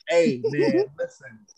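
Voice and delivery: squeaky, very high-pitched buddy voice; mocking an enabling friend with a very high, silly voice; mock yes-man friend. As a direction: lampoon a friend who cheers on anything. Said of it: "I don't want somebody to be like".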